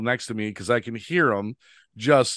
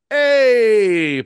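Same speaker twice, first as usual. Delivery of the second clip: a sudden loud, high hey; called out hey; 11 semitones higher, 9 dB louder than usual. Retold or imitated. Jamie calling out to his friend across the bathroom, loud and high. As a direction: call out to grab a friend's attention. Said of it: "he turns around and goes".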